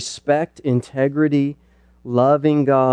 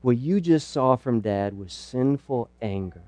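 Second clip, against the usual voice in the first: softer, humble asking for forgiveness; sincere apology; 4 semitones lower, 6 dB quieter than usual. Shown as a demonstration. Dad apologizing to his child for sinful anger, soft and sincere. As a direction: quietly own the anger and ask pardon. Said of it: "confess, say, you know".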